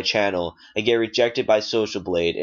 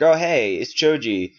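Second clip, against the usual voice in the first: mock excited greeting; 3 semitones higher than usual. Imagined YouTuber greeting him.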